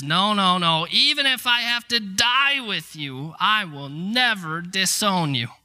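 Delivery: mildly acted insistent vow, rising in the middle; emphatic doubling down. Peter vows loyalty to Jesus, insistent protest. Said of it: "Peter triple dog downs and says".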